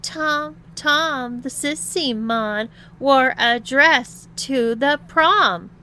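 loud, high, drawn-out sing-song jeer; husky-voiced taunt. A narrator's reading. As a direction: call it out slowly to mock him. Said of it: "said the husky voice".

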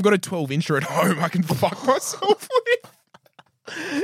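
slow, lightly camp boast; drawn out with a hint of mock camp; put-on gay voice. Man boasting back at his date, lightly put-on gay voice. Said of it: "Can I, can I do a gay voice or no?".

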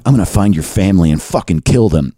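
low-pitched mock menace; mock threat. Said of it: "it sounds on Twitter like they're saying".

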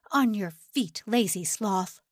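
rough commanding guard; gruff. Acted. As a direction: snap the order out gruffly. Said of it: "His voice was gruff".

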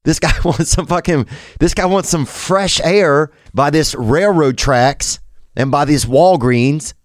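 a hint of a wheezy old guy; old dude. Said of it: "we get rid of old dude".

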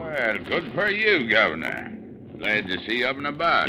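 put-on Cockney accent. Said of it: "You can drop the accent".

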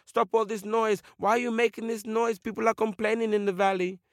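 high-pitched, indignant eagle voice; scolding eagle. Acted. Eagle scolds the wailing fish, high cross voice. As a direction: tell off the noisy one.

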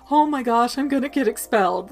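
a frantic student fearing trouble; mock schoolgirl panic. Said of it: "she's just like".

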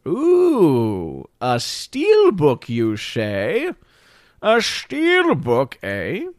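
oh, a Steelbook, savour it; mock excited.

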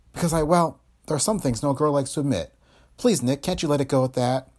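hedge, then plead mildly in a female role; reluctant woman character. Acted.

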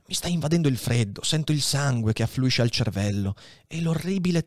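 lightly voiced dying old priest, weary; a hint of an old man shivering with fever; dying old abbé. Dying Faria tells Edmond his attack is coming, weary.

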